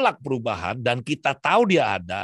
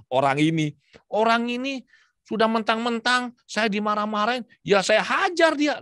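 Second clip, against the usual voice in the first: imitating angry complaint; 9 semitones higher than usual. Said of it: "dia bilang si ibu itu".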